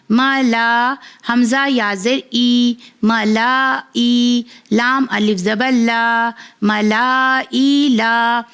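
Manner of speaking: slow, clear letter-by-letter spelling, then blending the word; patient teacher reading a primer aloud; phonics spelling drill. Acted. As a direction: spell each syllable out for a child, then join them.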